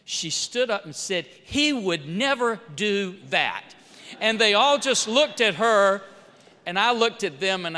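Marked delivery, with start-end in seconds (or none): 1.3-3.7 NEVER DO THAT slow and deliberate; emphatic defence. Retold or imitated. Young staffer defends boss to lawyers, slow and emphatic. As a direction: space out "never do that" word by word.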